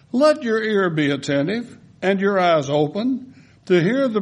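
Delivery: lifted, earnest reading of a prayer; scripture reading. Acted. Pastor reads Nehemiah's prayer aloud to the congregation in a lifted reading voice. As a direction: read the prayer as if praying it.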